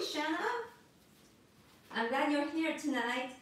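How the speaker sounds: normal talking voice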